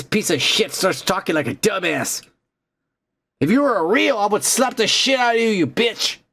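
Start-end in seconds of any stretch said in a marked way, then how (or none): 3.4-6.2 shaking with anger. Real, not acted. Threatening the Google assistant.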